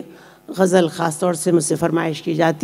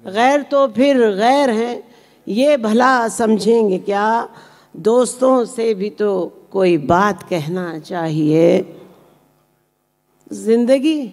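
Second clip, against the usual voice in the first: measured ghazal recitation with pauses between phrases; poetry recitation; 2 semitones higher, slower than usual. Acted. Poet reciting her ghazal to a mushaira audience, measured recitation. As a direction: recite each line deliberately, letting the refrain land.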